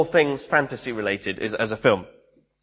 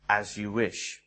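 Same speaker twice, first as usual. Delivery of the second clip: much lower and softer, a hushed devoted answer; Westley answering Buttercup, low, soft and devoted; devoted reply; 8 semitones lower, 11 dB quieter, slower than usual. Retold or imitated. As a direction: murmur it like a quiet vow of love.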